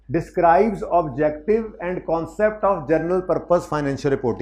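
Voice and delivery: very slow, careful read-aloud; slow study reading. Shown as a demonstration. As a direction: read it slowly word by word. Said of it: "जैसे मैं पढ़ाने लगा हूँ".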